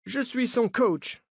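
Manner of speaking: American coach speaking French, slow and high; American accent. A narrator's reading. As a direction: lay on an American accent, drawn out. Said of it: "dit-il avec un accent américain".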